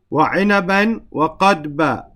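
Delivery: quick recited verse in Arabic; Quran recitation. Shown as a demonstration. Teacher reciting the verse to his class, brisk and chanted.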